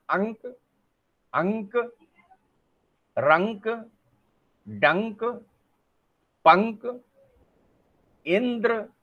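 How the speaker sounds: अंक, रंक, डंक said one by one with a clear nasal; nasal word list. Shown as a demonstration. Teacher giving examples of nasal words. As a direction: drill each nasal word. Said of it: "जैसे जो है मैंने कहा ना".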